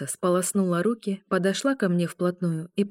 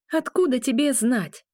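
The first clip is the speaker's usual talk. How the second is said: flaring up; 6 semitones higher than usual. A narrator's reading. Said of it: "вспылила волчица".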